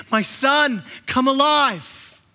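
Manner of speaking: solemn call to come alive; voice of the Father. Acted. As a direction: call him out of death slowly. Father calling Jesus to life.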